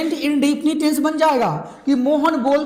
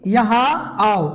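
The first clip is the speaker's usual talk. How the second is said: slow command; much slower than usual. Shown as a demonstration. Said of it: "तो इसका मतलब कि".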